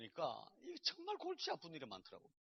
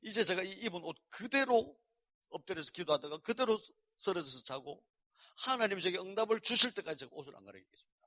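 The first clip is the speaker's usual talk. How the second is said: earnest vow prayer; 3 semitones higher, 4 dB louder than usual. Retold or imitated. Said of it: "제가 기도하기를".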